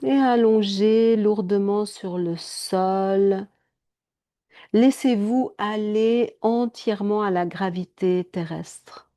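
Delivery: slow, drawn-out yoga instruction; guided relaxation. Acted. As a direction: guide them into heavy, restful stillness. Leads a relaxation.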